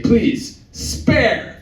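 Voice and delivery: high, hammed-up begging; mock pleading. Coward begging the drunk men, in a high mock plea. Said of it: "I was like".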